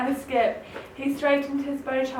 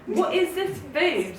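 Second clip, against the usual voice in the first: scoffing; 5 semitones higher than usual. Acted. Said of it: "scoffed Town Mouse".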